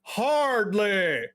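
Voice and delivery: high, loud group cheer; hammed-up tavern shout; crowd shouting back. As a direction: answer as a whole rowdy bar. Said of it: "everyone in unison says".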